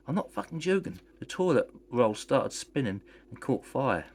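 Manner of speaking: high, urgent and horrified; insist, shaken and scared. Acted. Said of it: "in a horrified state".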